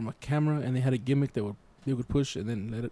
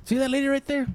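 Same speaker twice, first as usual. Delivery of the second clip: uncle voice; 9 semitones higher than usual. Retold or imitated. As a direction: play the wistful old uncle. Uncle voice continues.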